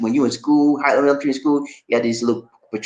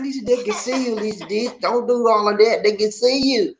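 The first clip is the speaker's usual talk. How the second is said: tag; 8 semitones higher than usual. Retold or imitated. Retold warning to Lisa.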